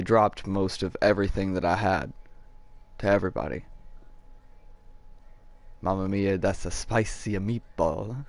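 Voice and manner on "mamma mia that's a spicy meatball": slow cartoon Italian accent; playful stage-Italian catchphrase; mock Italian accent. Streamer joking to viewers, mock Italian accent.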